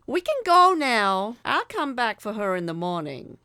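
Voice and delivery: very loud, high angry outburst; angry Doreen. A narrator's reading. Doreen storming away from the doctors, loud and angry. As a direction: bark it furiously. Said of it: "headed back angrily".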